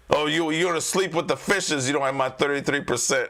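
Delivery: lightly put-on Chicago mobster; a mock threat in a bad Chicago accent; J J, terrible Chicago accent. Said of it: "That's just my terrible, uh, uh, Chicago accent".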